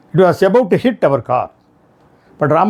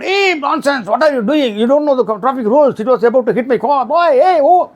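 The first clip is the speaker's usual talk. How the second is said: retold angry shout; 6 semitones higher than usual. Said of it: "That time, Lakshman shouted".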